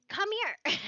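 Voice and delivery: puppy talk. Real, not acted. Calling her puppy back to her, high sing-song baby talk.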